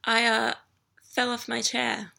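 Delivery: flustered halting stammer. Acted. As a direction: trip over the words. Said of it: "could barely stammer out a response".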